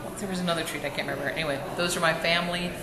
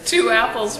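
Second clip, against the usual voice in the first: put-on children calling two apples to mom at bedtime; lightly voiced eager kids; kids asking; 7 semitones higher than usual.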